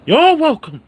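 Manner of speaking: high squealed You're welcome; Christopher Walken yell. Retold or imitated. Imitating Walken yelling to everyone, high falsetto. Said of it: "he yells out to everyone".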